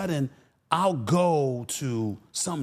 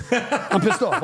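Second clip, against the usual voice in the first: laughing; 8 semitones higher, 4 dB louder, slower than usual. Retold or imitated.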